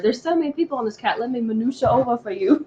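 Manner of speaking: joking Southern voice, playing with minutia; mock Southern accent. Co-host jokes that minutia sounds Southern, in a mock Southern accent. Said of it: "It sounds like such a Southern word".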